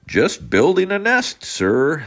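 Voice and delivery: high, loud little bird voice; chirpy bird, busy and pleased; Zinazoo bird. Acted. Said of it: "the Zinazoo said".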